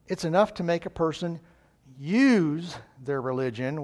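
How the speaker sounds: hopeful, slowing on "use their religion" with a rise; a lightly voiced cheerful believer; upbeat optimist. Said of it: "The optimist looks at life and says".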